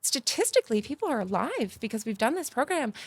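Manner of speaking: excitedly telling the dentist they saved lives; excited yelling. Retold or imitated. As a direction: burst out with the joy of saving lives. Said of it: "And I'm screaming".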